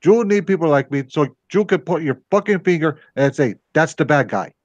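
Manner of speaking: put-on light Scarface Cuban accent; a hint of a Cuban gangster accent. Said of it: "I should do the Cuban accent".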